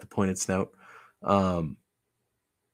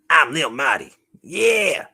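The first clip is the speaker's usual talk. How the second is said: loud, high hype voice; excited puppet; 7 semitones higher, 7 dB louder, slower than usual. Pretend. Puppet introducing itself by its new name, excited. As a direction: announce yourself as a hyped toy character.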